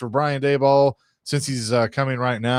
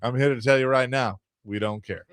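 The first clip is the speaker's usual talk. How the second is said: Stephen A. Smith impression. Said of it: "She's Stephen A. Smith".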